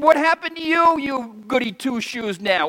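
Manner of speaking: lightly voiced high taunt; old friends jeering at a convert, mildly mocking. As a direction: tease like a scornful old friend. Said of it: "And they said".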